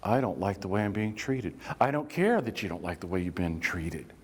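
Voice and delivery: low, contained calm complaint and reply. Acted. Two people starting an argument over treatment, still calm. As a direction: keep the argument restrained, voice held down. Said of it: "We start off calm".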